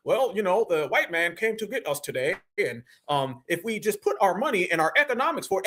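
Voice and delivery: mock formal documentary speaker; measured, hesitant, mock-proper delivery; prim and proper. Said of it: "everything used to be prim and proper".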